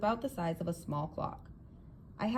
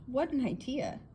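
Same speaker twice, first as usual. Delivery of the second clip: amazed exclamation; 8 semitones higher than usual. A narrator's reading. Young man amazed by time machine.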